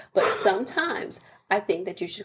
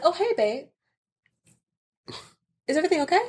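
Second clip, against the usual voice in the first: sweet gentle wife; 8 semitones higher, faster than usual. Retold or imitated. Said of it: "I'm like".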